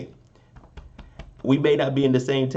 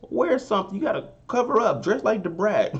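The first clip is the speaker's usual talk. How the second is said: higher-pitched mock telling-off; imitated scolding; 9 semitones higher than usual. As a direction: chide her like family, pitched up. Retelling Bow's scolding of Shania.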